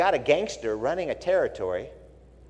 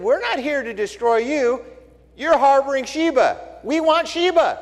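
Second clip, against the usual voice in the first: commander answering; 10 semitones higher, 5 dB louder than usual. Retold or imitated. Joab answers the woman.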